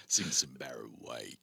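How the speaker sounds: low, soft soul-singer croon. Pretend. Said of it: "do some late night radio".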